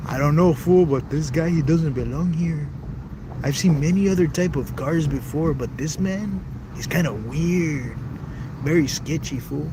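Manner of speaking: imitated Latino accent, loud and drawn out at phrase ends; put-on Latino accent. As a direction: play a suspicious local in a Latino accent. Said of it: "I don't know why I have that accent".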